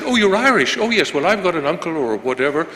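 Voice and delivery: bright mock enthusiasm from someone who has an Irish uncle; hammed-up gushing American voice; delighted foreigner. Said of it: "They said".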